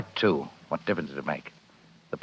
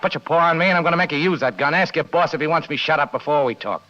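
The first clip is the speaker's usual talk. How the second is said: fast, higher, snapping defiance; angry defiance; 5 semitones higher than usual. Acted. Spade warning the gunman off, fast and defiant. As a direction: push back hard, daring him to shoot.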